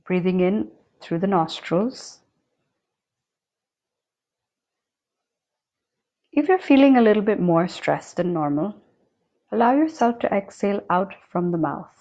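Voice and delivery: unhurried meditation guide with long silent pauses; guided meditation. Acted. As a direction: guide them calmly, leaving long spaces between phrases. Guides the breath through body.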